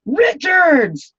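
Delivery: a high, loud call across the field; coach's yell. Retold or imitated. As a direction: yell the surname to stop the game. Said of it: "the coach yelled".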